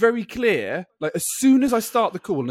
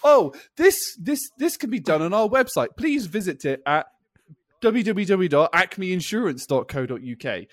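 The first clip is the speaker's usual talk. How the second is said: automated phone menu. Retold or imitated.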